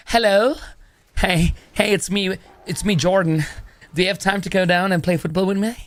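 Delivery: put-on American accent that comes out English; lightly hammed-up would-be American English; attempted American accent. Acting out Jordan asking someone to play football, attempted American accent. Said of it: "That was an English accent".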